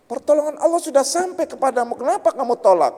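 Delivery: high, rebuking question from the angels. Retold or imitated. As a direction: challenge him on why he refused. Angels question the dead man.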